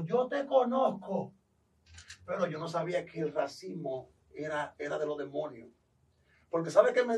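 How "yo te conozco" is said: demon voice. Retold or imitated. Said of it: "el endemoniado dijo".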